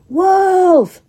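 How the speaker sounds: high, loud squirrel shriek; shrieked wolf. A narrator's reading. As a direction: shriek the alarm. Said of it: "shrieked Jip".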